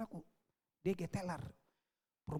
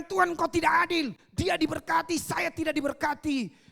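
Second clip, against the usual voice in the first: indignant protest; 4 semitones higher, 6 dB louder than usual. Retold or imitated. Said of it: "Dia bilang".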